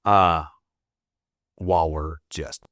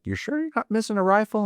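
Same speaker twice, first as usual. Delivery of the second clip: imitating the airman; faster than usual. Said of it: "And he's like".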